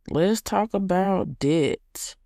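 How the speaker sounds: slow breathy whisper. Real, not acted. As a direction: whisper it conspiratorially. Whispered aside about debt.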